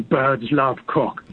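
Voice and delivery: slow, heavy orc voice. Retold or imitated. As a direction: say it like a Lord of the Rings orc. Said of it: "So I started saying it in this orc voice".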